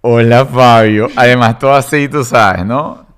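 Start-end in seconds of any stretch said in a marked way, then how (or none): 0.0-1.1 slow, falsely friendly hello; fake sweet intimidating. Imagined mother-in-law greeting a teen boyfriend, fake sweet. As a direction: purr it sweetly with a hidden threat. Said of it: "Simpática e intimidante".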